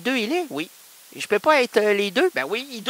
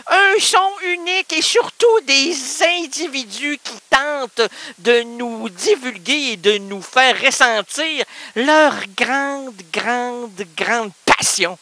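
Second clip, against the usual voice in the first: mock grandiose promo; slower than usual. Pompous radio-slogan delivery.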